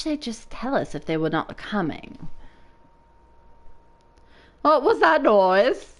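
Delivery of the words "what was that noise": alarmed. Acted. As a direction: sound the alarm. Alarm at attack.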